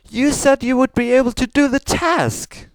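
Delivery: loud, high angry scolding; shouting. Acted. Celestia scolding Luna for failing, loud and high. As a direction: snap at her for failing the task. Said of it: "as even as her sister shouted".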